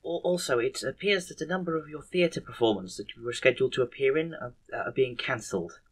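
soft, halting, stammered delivery; hesitant report. Acted. Nurse reporting back on the managers' votes, soft hesitant voice. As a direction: pick through it timidly with ums and restarts.

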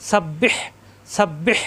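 সাব্বিহ with a doubled ব and a pressed breathy হ; pressed throaty h. Shown as a demonstration. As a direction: squeeze the last হ of সাব্বিহ from the throat. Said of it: "কণ্ঠনালীতে চাপ সৃষ্টি হবে". (সাব্বিহ-এর হ কণ্ঠে চাপ দিয়ে)

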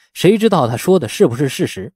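ordinary delivery, nothing marked

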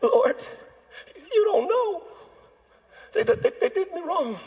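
a laughing, squeaky woe-is-me whine. Retold or imitated. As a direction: squeak it out like a self-pitying whiner. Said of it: "Your voice gets a little higher, a little squeaky".

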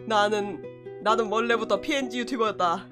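cute anime streamer. Acted. Low dramatic declaration persona.

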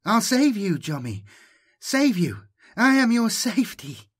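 put-on a possessed voice luring the boy in; hypnotic promise. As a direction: entrance him with the offer of safety. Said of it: "drone hypnotically, bewitchingly".

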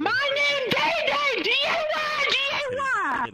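emphatic shout. Pretend. Man correcting his name to Mister Piccolo's fan, loud emphatic shout. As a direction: belt out each letter.

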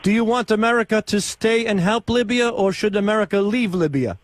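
put-on foreign accent, broken English. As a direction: prank caller with a fake foreign accent. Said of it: "why do you have an accent?".

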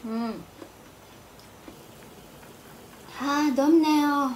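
talking with hot mouthful; fanning mouth after hot bite; chewing hot food. Real, not acted. Seen 0: Just ate, fans hands at face, says hot while mouth working.

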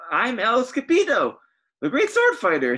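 boastful hero voice. Acted. Hero boasts his name.

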